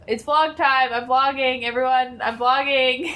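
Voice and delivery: excited announcement; announcing loudly. Retold or imitated. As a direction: call it out to the room. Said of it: "every time I yell".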